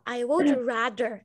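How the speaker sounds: would rather com entonação subindo; rising tune. Shown as a demonstration. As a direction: rather dito subindo, devagar. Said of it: "É pra cima". (entonação para cima)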